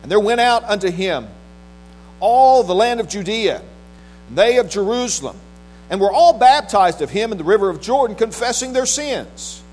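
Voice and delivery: measured, solemn Bible reading from the pulpit; scripture reading. Acted. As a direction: read scripture out with weighty pauses between phrases. Reads scripture aloud to congregation.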